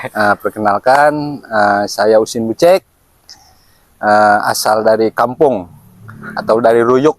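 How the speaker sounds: words around a lit cigarette; cigarette in mouth. Real, not acted. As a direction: talk while holding a cigarette in the lips. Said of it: "Sambil ngerokok aja ya".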